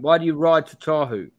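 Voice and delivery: suspicious sergeant shouting; bellowing sergeant. Acted. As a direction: keep bellowing the question. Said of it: "bellows the sergeant".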